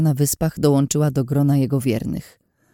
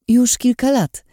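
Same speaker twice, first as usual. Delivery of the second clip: pitched up, a lie in a disguised voice; slightly changed voice; 9 semitones higher, 3 dB louder than usual. Acted. Narrator lying to Lin in a disguised higher voice. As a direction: lie while shifting the voice a touch higher. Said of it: "zmieniając lekko ton głosu".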